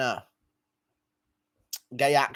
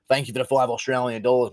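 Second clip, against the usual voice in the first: put-on Australian accent; 2 semitones lower, faster than usual. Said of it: "I'm from Canberra".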